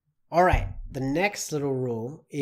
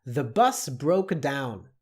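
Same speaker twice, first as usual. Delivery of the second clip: slow dictation; slower than usual. Shown as a demonstration. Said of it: "here we go".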